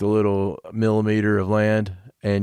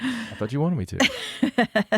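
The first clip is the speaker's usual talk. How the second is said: 1 laughing; 8 semitones higher, much slower than usual. Real, not acted. Laughing reply to teasing.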